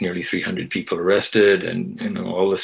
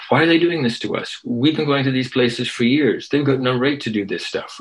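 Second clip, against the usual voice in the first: higher, voice close to breaking; near tears; 5 semitones higher than usual. Retold or imitated. Arrested man protests the raid to the reporter, near tears. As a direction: plead it, holding back tears. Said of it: "tears in his voice".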